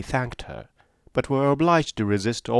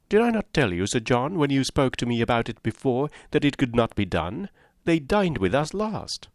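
slightly raised, lightly reproachful lady; a touch of a reproachful wife; 4 semitones higher than usual. Acted. Lady Middleton reminding Sir John, a touch reproachful. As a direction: remind him a bit sharply.

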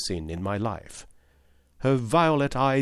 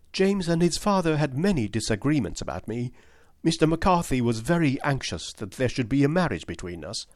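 put-on a touch higher, confiding young lady; lightly voiced young woman; 3 semitones higher than usual. Miss Turner confessing the quarrels to Holmes, lightly higher voice. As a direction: explain frankly, a little shy.

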